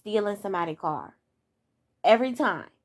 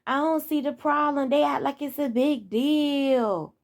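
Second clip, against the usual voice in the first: higher, airy mock of a shrugging mama; higher, slowing at the end, a lightly voiced careless mother; dismissive mama; 4 semitones higher, slower than usual. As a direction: brush it off like nothing's wrong. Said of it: "And the mama like".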